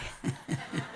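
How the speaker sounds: soft, low laugh; amused chuckle. Real, not acted. Pastor laughs after baby says papai, soft chuckle. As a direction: chuckle quietly at your own joke.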